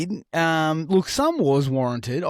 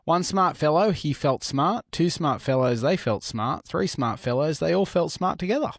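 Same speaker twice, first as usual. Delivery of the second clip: careful, even tongue-twister delivery; tongue twister attempt. Shown as a demonstration. Reading a tongue twister to the podcast hosts, careful and even. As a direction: rattle off the tongue twister cleanly. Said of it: "Try saying this tongue twister".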